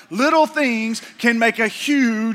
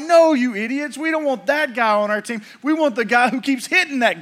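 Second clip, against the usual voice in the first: mock exasperated coach; 3 semitones higher than usual. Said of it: "And the coach is like".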